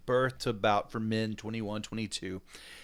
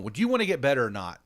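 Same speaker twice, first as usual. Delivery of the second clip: impatient dad; 2 semitones higher, 8 dB louder, faster than usual. Retold or imitated. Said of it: "And I'm going".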